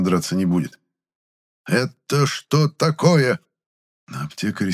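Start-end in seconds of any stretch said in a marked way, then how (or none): 1.7-3.4 slow menace. Acted. Furious chemist confronts apprentice.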